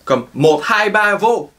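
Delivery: slow "mot hai ba vo"; "mot hai ba" lentement; Vietnamese counting. Shown as a demonstration. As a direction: count one two three slowly. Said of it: "se prononce comme un V".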